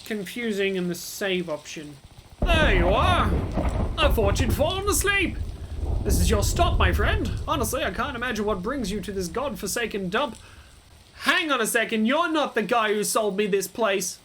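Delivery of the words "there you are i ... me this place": lightly voiced NPC; character voice. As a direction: read the NPC lines in a put-on voice. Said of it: "doing a different voice".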